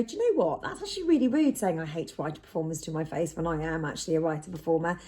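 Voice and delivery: low, soft, measured calling out; quiet steady reproach; calm assertive. Shown as a demonstration. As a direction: firmly call out rudeness without shouting. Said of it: "instead of being able to go".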